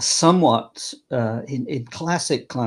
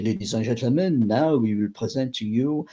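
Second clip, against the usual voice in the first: English subtitle; 3 dB quieter than usual. Pretend. Barker subtitling himself to the crowd, quick quieter aside. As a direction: rattle off the translation quicker and quieter. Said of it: "subtitle myself".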